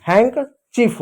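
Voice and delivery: handkerchief as "हैंक चीफ", no d sound; silent D. Shown as a demonstration. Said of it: "डी silent होगा". (डी silent रखकर "हैंक चीफ")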